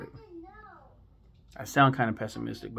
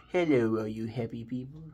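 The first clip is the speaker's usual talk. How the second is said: a light imitation of Droopy Dog; a lightly voiced droopy cartoon greeting. Quoting Droopy Dog's greeting, lightly voiced. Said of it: "He did Droopy Dog".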